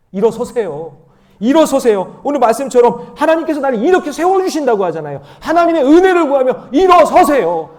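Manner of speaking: loud, high preacher's rallying cry; urgent preaching, building to a high shout; full-force exhortation. Real, not acted. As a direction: shout it out to rouse the congregation. Exhorts congregation to stand up.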